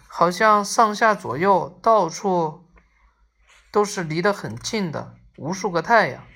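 measured, phrase-by-phrase storytelling; story narration. A narrator's reading. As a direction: read the story aloud with deliberate pauses. Resumes reading the story. (故事朗读)

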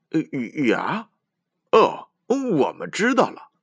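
high, loud giggly realization; giggling elephant. A narrator's reading. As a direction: giggle it out like a small child. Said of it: "小象咯咯地笑着说".

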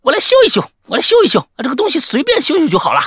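high, loud mocking boast; mocking Fang ge. Mimicking the dance leader boasting he can fix it, high mock voice. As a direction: ham up a cocky fixer. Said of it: "那个放哥还说".

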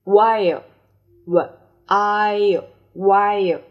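clear, loud model of While; loud model word. Shown as a demonstration. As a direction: call out While for the class. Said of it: "teacher models word loudly". (大声示范 While)

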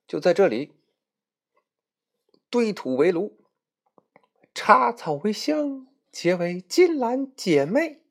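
郑重庄严地起誓; solemn oath. Acted. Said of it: "白雪公主说". (高声慢念的结拜誓言)

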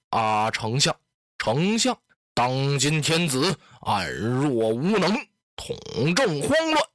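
slow, weighty tyrant addressing the court; storyteller playing a domineering warlord; Dong Zhuo. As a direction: lay it out slowly, a menacing chancellor.

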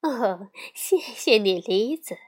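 mother thanking the friend at the door with a smile; smiling thanks. Acted. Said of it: "熊妈妈笑着说".

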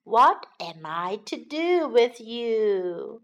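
worn out. Acted. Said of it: "said his worn-out mother".

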